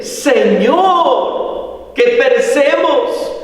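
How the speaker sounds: high, drawn-out cry for help, acted; anguished outcry. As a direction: plead to the Lord as if perishing. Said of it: "fue una angustia, un clamor".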